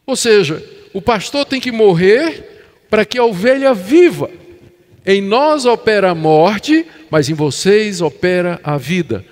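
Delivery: emphatic, insistent sermon delivery; preaching. Real, not acted. Pastor on shepherds dying for the sheep, emphatic preaching. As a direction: drive the conclusion home with strong stresses.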